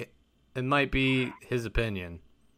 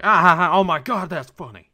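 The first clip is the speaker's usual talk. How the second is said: mock laughing; 8 semitones higher, 10 dB louder than usual. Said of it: "he's like".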